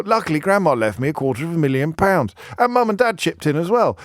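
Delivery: mock a privileged young buyer, posh and smug; silly posh accent. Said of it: "I'm doing a silly accent".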